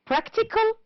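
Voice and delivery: practical pitched high, PRAC stressed; high listing practical, stressed at the front; stress on first syllable. Shown as a demonstration. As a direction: punch the start of practical high. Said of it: "first syllable".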